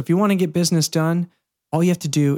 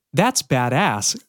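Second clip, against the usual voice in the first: slow quoted slogan; much slower than usual. Shown as a demonstration.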